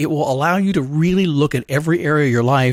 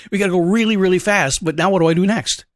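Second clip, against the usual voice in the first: lightly voiced eager dog, a bit higher; raring dog; 4 semitones higher than usual. Dog to handler leaving the tunnel, mildly acted eagerness. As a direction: hurry Dad along like a keen dog. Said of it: "raring at full speed".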